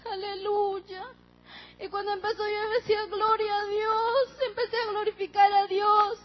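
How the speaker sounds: tearful praise through sobs; crying. Real, not acted. Daughter praising God through tears as mother revives. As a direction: voice breaking with real tears.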